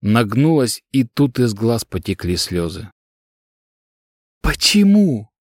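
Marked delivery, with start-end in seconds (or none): 4.4-5.3 high, plaintive moaning question. Acted. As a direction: ask it like a wounded moan. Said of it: "жалобно простонала".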